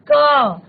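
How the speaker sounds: क said alone with its inherent अ vowel held out; teacher sounding out क as an open syllable; letter sound demo. Shown as a demonstration. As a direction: sound out क clearly as "kaa", falling at the end. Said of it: "क का उच्चारण हम अ के उच्चारण के बिना".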